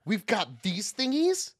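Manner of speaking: slow, airy whisper. Real, not acted. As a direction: whisper it slowly and wonder. Replying to whisper.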